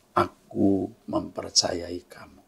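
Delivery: slow, soft and reassuring; reassuring inner voice. Retold or imitated. God reassures the troubled preacher, slow and soft. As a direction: let each word settle calmly. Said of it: "kalimat itu saya dengar".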